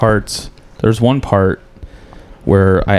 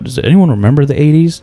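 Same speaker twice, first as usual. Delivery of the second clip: comic asking crowd; 7 semitones higher, 3 dB louder than usual. Retold or imitated. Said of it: "when people ask about".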